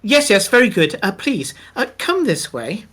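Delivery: a hint of a fussy little goblin ushering a guest; goblin waiter. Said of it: "a goblin dressed in a waiter's uniform".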